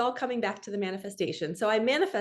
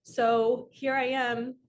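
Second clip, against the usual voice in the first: drawn out slowly, a bit louder; slow emphatic; 3 semitones higher, 4 dB louder, much slower than usual. Real, not acted. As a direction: linger on each word of "So here I am". Same phrase, slowed for emphasis.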